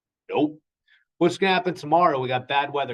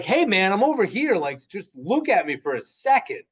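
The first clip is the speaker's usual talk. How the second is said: mock annoyed call; 6 semitones higher than usual. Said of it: "You don't wanna just say".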